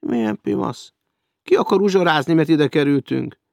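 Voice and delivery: high, loud fuming; raging. Acted. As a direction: rage at the manager behind his back. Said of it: "Dühöngött Hecker".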